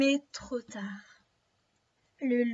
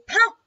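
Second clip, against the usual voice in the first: loud sudden bang; gunshot noise; 8 semitones higher, 14 dB louder than usual. Acted. Hunter shoots the wolf, loud spoken bang. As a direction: fire the word out.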